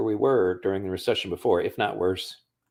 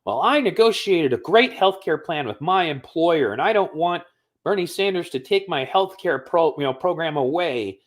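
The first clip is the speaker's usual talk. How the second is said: nasty woman; 9 semitones higher than usual. Retold or imitated. Mocking a conservative woman from his Facebook, high smug voice. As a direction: pitch it way up and sneer through it like she's proud of her plan. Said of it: "this woman was just nasty".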